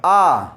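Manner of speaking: 'आ' as a long, loud open aa; open 'aa' vowel. Shown as a demonstration. Teacher showing how A is pronounced, 'आ' as long aa. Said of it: "ए का उच्चारण आ".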